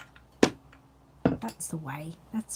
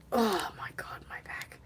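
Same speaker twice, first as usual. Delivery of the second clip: strained; 7 dB quieter than usual. Real, not acted. Lifting the camera tripod.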